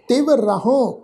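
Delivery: ਰਹਉ with a nasalized final ਉ; nasal tone. Shown as a demonstration. Teacher demonstrates nasal ending of ਰਹਉ. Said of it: "ਨਾਸਕੀ tone ਚ ਪਾਠ ਉਚਾਰਨ".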